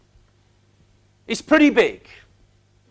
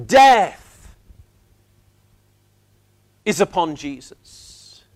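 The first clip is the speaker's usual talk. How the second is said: whisper; 5 semitones lower, slower than usual. Real, not acted. Dramatic hush over death symbol.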